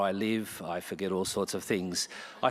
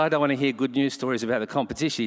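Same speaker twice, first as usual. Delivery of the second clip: mock indignation; 4 semitones higher, 7 dB louder, faster than usual. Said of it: "I said".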